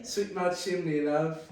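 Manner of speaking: loud, slow mock Cockney; hammed-up Cockney chimney sweep; Dick Van Dyke Cockney. Offering a friend a chimney-sweep come-on, mock Cockney accent. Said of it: "You want a Dick Van Dyke type?".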